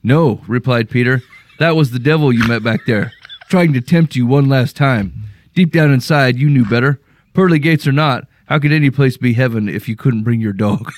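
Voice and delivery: reading a story aloud, measured and even; story narration. A narrator's reading. Host reads a listener's story to co-hosts, story narration. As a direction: narrate it as an evenly paced parable.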